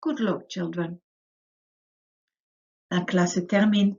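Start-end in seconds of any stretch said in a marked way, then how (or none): 2.9-3.9 louder cheerful classroom goodbye in French; French sign-off. Acted. Teacher says goodbye to children in French. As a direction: close the lesson warmly in French. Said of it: "ending lesson in French".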